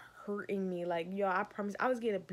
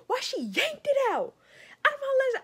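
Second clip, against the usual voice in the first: high, louder outraged laughing cry; indignant outrage; 6 dB louder than usual. Real, not acted. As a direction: squeal it high, half laughing in disbelief. Indignant retelling of yank.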